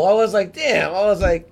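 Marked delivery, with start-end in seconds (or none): 0.5-0.9 loud, high exclamation; raised-voice replayed reaction; retold dismay. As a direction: blurt it out like a stunned viewer. Acting out reaction to film death.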